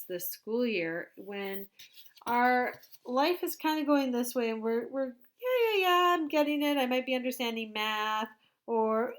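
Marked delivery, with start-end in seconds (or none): 5.4-8.3 mock confident kid. Teacher acts a kid feeling confident.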